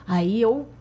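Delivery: usual speaking voice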